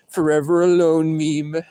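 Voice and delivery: mock proclamation. Alone in the car, joking about himself, drawn-out mock proclamation. Repeats catchphrase, bigger.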